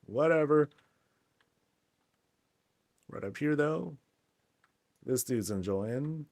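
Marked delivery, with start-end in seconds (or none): 0.1-0.7 higher, louder, brushing it off in a put-on voice; dismissive gnome. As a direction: wave it away like a sulky little figure. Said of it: "It's like".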